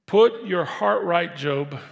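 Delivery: slow, loud and high, calling out "Put your heart right"; loud rebuke. Acted. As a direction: thunder it at Job like a stern friend. Preacher voicing Job's friend.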